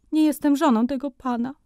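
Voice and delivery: a mother forcing the words out, mortified; as if under torture; high, strained embarrassed protest; choked out. A narrator's reading. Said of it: "wykrztusiła matka jak na torturach".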